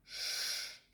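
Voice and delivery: Ш hissed long and strong; a hard drawn-out Ш. Shown as a demonstration. Teacher giving the Russian Ш. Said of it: "and very stronger, like sh".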